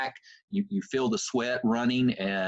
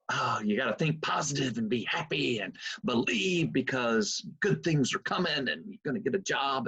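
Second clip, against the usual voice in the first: mock preacher. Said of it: "the smiling preacher 'cause he's always smiling".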